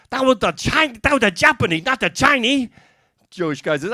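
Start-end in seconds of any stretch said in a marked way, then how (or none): 0.1-2.7 a touch of acted indignation, higher; mildly indignant protest. Chinese guy corrects the Jewish guy, mildly indignant. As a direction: lightly protest the mistake as the joke's wronged man.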